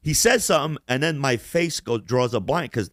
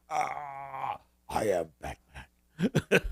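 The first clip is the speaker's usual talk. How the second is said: Batman; 3 semitones higher, 6 dB quieter, much slower than usual. Retold or imitated. Cartoon picture popping up between the hosts, voiced as a mock superhero. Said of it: "and he's like".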